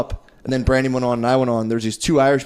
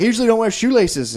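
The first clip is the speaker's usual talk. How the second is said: much higher-pitched woman's voice; imitated Irish lady; 9 semitones higher than usual. Comic voicing the lady explaining her shoes, high imitation. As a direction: quote her in a raised, put-on pitch.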